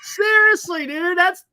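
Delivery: high, loud, laughing out the words. Real, not acted. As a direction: laugh through it. Laughing at grim story.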